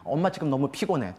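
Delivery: soft, even tired tone; mild tired mom, no anger; calm mother. Shown as a demonstration. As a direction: tell the child gently you're worn out. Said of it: "엄마가 화가 안 나면은요".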